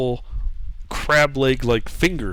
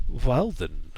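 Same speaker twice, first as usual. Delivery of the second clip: slow, soft voice in the mind; eerie, hushed alien speech; telepathic voice; 3 dB quieter, slower than usual. Acted. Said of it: "you hear the voices in your mind saying".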